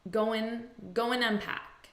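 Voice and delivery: AND shrunk to a bare n sound; reduced AND. Shown as a demonstration. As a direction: GO AND run together as "go-'n". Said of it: "this is going to sound like".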